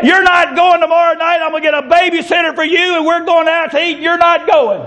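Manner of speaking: mock-angry mom, pitched high; retold scolding, high and insistent; mad mother. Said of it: "she got mad".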